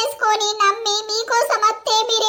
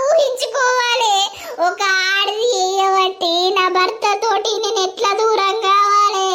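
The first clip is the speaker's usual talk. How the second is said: wailing, tearful begging; wife weeping and begging him to leave the other woman; sobbing plea. Acted. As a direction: cry out your plea, half-sung in grief. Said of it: "ఏడవకు బిడ్డ".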